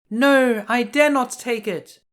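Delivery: put-on a sweet girl refusing politely; Snow White's voice. Snow White apologizes to the old woman, high girlish voice. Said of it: "answered Snow White".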